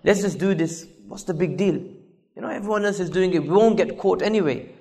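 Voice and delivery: lightly voiced friend, soft and casual; peer-pressuring friend. Friend pushing someone to try one cigarette, softly coaxing. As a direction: coax quietly, as if it were nothing. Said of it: "They'll put pressure on us".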